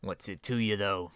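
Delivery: cagey answer in a gravelly voice; deep gravelly villain. Acted. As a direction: play the guarded gang boss, rough-voiced. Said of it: "a deep kind of, uh, gravelly, uh, voice".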